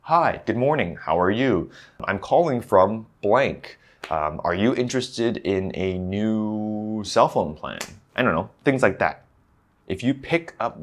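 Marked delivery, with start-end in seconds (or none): 0.0-7.8 sales call opener. Shown as a demonstration. Speaker demos a phone sales greeting, lightly voiced. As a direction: act out a cold call to a client. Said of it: "phrases that you use on a daily basis".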